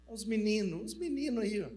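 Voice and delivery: Minas accent, "meninos" as "mininu"; Minas Gerais accent. Shown as a demonstration. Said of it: "igual a gente fala lá em Minas". (sotaque mineiro, "os mininu aí")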